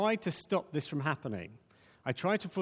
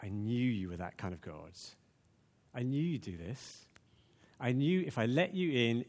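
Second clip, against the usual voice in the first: resentful complaint; 3 semitones lower than usual. Shown as a demonstration. Preacher voicing Jonah's bitter complaint to God, resentful. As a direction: lay it out as a grievance. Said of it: "Or you can say".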